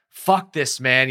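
half-acted irritation at the sea; frustrated curse. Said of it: "then the anger starts kicking in".

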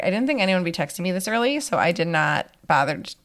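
just-woke-up rough voice; morning voice. Real, not acted. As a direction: talk in your early morning voice. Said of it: "you're getting my morning voice today".

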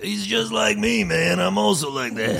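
high, slow dopey fan voice; mocking a wannabe comic, high and slow; mock fanboy. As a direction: mimic a fan who idolizes him. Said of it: "they're like".

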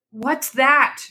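sudden high startled cry; frightened cry. A narrator's reading. Old wife hearing a knock at night, high startled cry. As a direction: jolt awake at a sound in the night. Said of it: "cried the old woman".

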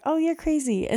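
high, loud mock-scolding squeal; playful disbelief. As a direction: tease him back, way up high. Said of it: "And I was just like".

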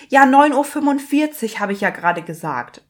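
pissed-off patient. Retold or imitated. Patient snapping back at receptionist, mock pissed-off. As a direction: imitate someone annoyed at repeating themselves. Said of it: "waren so richtig pisst einfach".

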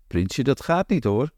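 lightly pleased grandma protesting; mild flattered tease. Acted. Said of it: "zegt oma gevleid".

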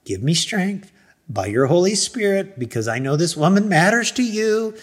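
retold prayer for self-control; praying. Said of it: "So I just started praying".

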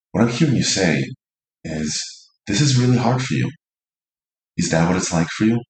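gentle, caring mirroring; soothing and accepting. Shown as a demonstration. Receiver mirroring partner's struggle back, soothing and accepting. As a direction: soothe them with love and care. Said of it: "Notice the tone, the energy".

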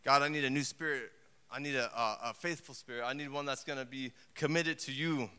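quiet plea to God; a hint of humble prayer; David praying. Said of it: "David again speaking".

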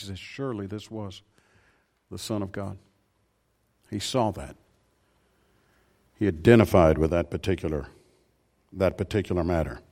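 softly recounting the centurion at the cross; hushed retelling. Acted. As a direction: lean in and tell it quietly. Retelling the crucifixion scene.

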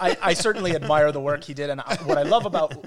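laughing while talking. Real, not acted. Still laughing after the joke.

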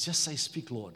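lightly voiced old priest giving instructions; Eli instructing. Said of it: "He says".

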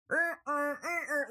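high straining car-engine noise; engine revving noise. Retold or imitated. Stuck driver mimicking her car revving, straining engine noise. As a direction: imitate the car straining in snow.

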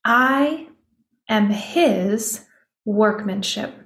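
I lifted and set apart, then a pause; stress on I. Shown as a demonstration. Host showing listeners where emphasis lands, stressing I. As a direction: hang on the word I before the rest. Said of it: "I don't know where the emphasis lands".

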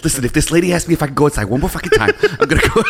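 mock whiny cop. Parodying cop's excuses.

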